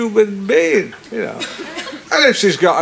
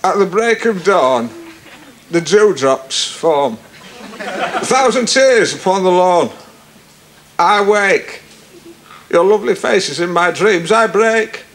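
emotional poem. Acted. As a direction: read it like a heartfelt love poem. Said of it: "it's quite, quite emotional".

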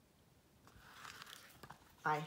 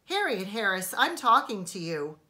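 stern warning; 8 dB louder, faster than usual. A narrator's reading. Mother's patience snapping.

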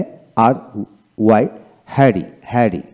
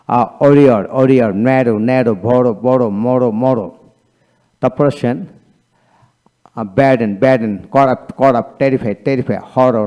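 quick read-through. Shown as a demonstration. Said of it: "দ্রুত গতিতে পড়ানোর জন্য আমি আবার একটু পড়ে শোনাই".

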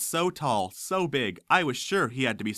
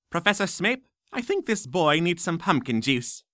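put-on old witch voice; 6 semitones higher than usual. Old witch teacher speaks.

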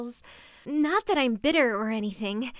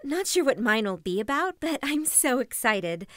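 forced cheer; 2 semitones higher than usual. Acted. Forced cheerful retake of vlog.

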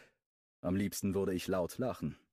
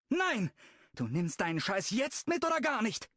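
sharp, much higher shouted no; angry outburst; 4 dB louder than usual. Acted. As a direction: bark the order at him. Brooklyn snaps at Jeff. (wütend herausgeschrien)

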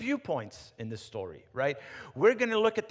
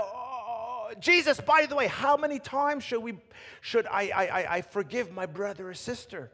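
high, louder, eager blurting; eager Peter; 7 semitones higher, 5 dB louder than usual. Acted. Peter interrupting Jesus with his question, eager and high. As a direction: blurt it like an impatient kid. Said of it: "And Peter's like".

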